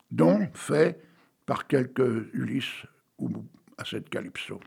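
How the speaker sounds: slow, measured verse recital; old poet reciting Hugo; poem reading. Acted. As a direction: read each line like a storyteller. Reads a Victor Hugo poem.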